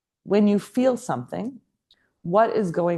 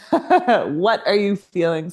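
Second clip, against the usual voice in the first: slowed, laughing through the words; drawn out and amused, a bit louder; slow laughing question; 4 dB louder, slower than usual. Retold or imitated. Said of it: "Yeah, but what are you feeling?".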